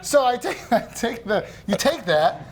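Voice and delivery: pirate voice. Pretend. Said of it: "now I'm a pirate".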